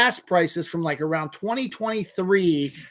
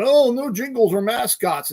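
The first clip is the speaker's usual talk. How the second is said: mock-quote a slogan, pitched up; scornful parroting of their line; 4 semitones higher, 3 dB louder than usual. Ranter parroting an insurance company's slogan, mocking.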